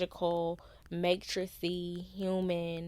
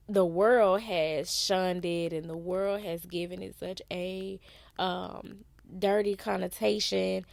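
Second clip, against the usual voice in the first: robotic, strained throat voice; 5 dB louder than usual. Real, not acted. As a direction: sounds like a robot with a rough throat. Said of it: "why I sound like a robot?".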